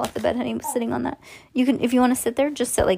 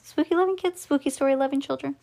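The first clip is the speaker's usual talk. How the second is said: rising, much higher unsure question; doubtful question; 4 semitones higher than usual. Shown as a demonstration. Reader doubting her own phrase, a high questioning lift. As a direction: query your own wording, pitched up high.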